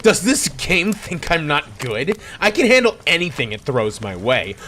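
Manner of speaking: loud boastful declaration ending in grunts; cocky gamer bragging loudly at the screen. Acted. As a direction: brag loudly, then grunt in effort. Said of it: "and I said loudly".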